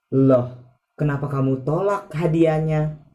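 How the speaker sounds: quick, puzzled question; confused. Shown as a demonstration. Teacher shows confusion over a refused present, mildly confused. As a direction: ask it with mild bafflement. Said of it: "when you are confused".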